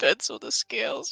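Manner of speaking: soft, hushed, breathy near-whisper murmur. Narrating a scene, voicing a character who answers at the counter: soft voice. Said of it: "with the soft voice".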